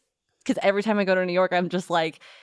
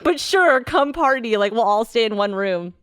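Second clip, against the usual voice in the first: sarcastic; 3 semitones higher than usual. Retold or imitated. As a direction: pretend to welcome them while fuming. Sarcastic mock welcome, high and loud.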